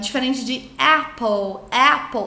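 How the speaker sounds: apple said slowly with an open initial vowel. Shown as a demonstration. Teacher contrasts apple's open vowel sound. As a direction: open the mouth wide on apple. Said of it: "Olha o som inicial".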